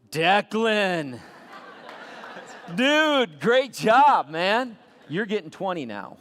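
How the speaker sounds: loud, high, delighted shout; excited praise. Acted. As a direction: cheer him on like a proud boss. Master praising faithful servant.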